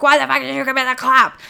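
hammed-up blame, pushed up and out; accusing the boyfriend, a mock angry yell; mock accusation. Accusing boyfriend over chlamydia.

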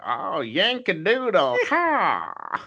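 high, drawn-out Yankee caricature; hammed-up American hollering; mock American accent. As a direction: mimic a cliché American, whooping at the end. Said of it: "now you're sounding a little bit".

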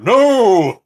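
high yelled no; pained refusal. Retold or imitated. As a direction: yelp it out, struggling. Victim refusing in headlock.

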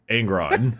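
slow name in mock Italian accent. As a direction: stretch it with a slight Italian lilt. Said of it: "They're not Italian".

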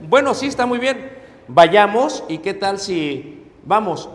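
mock-eager husband saying let's go. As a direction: play the keen husband agreeing.

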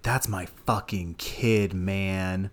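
slow, laid-back hippie drawl; lazy slow hippie, mellow. Retold or imitated. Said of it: "In this very hippie voice".

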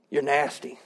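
low, soft mock disgust; deadpan teasing put-down, pitched low; sarcastic scolding. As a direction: say it as quiet, dry sarcasm. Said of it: "trying to motivate him through sarcasm".

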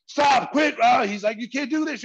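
high, loud imitated plea to stop; panicked boss. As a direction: cry out to break up a fight.

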